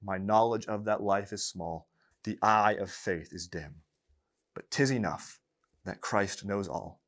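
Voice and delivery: solemn recited verse, rising in the middle; poem reading. Acted. Preacher closing the sermon with Baxter's poem, solemn recitation. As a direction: read the hymn as a prayer.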